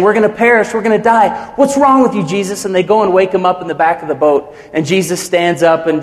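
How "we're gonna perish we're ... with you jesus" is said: frightened men crying out, lightly played; panicked disciples. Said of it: "his disciples are freaking out and saying".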